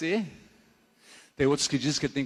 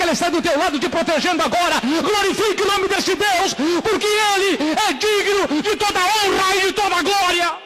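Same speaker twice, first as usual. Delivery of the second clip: preaching at full force; 13 semitones higher, 7 dB louder than usual. Real, not acted. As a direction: shout praise to the congregation, stretching the words.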